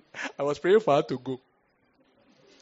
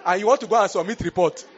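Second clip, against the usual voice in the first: incredulous retort; 6 semitones higher, 9 dB louder than usual. Retold or imitated.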